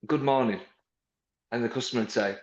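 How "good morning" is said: brisk friendly greeting; good morning greeting. Shown as a demonstration. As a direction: greet the customer cheerfully. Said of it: "I was like".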